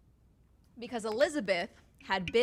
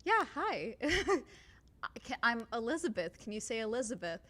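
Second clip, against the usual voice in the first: higher, lightly voiced kind young woman; a hint of a gentle woman teaching a word; kind Elizabeth; 4 semitones higher than usual. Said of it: "just from kindness".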